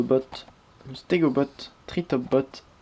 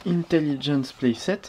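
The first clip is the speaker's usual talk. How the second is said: Intelligence Playset in a mock English accent. Shown as a demonstration. Reviewer reads box name to viewers in a hammed-up English accent. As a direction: say Intelligence Playset like a posh Brit, lightly. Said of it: "avec un magnifique accent anglais".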